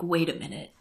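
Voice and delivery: put-on soft, slow, wide-eyed whisper of a boy; a little boy leaning in with a sudden suspicion, quietly and slowly; awed, hushed question, drawn out; hushed slow kid voice. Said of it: "he's like".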